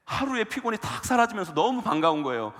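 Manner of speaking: ordinary talk, nothing marked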